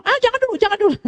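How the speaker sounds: high-pitched mock protest; imitating a flustered young person fending off teasing; flustered refusal. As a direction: squeal a playful brush-off, pitch way up. Acted flustered reply to teasing.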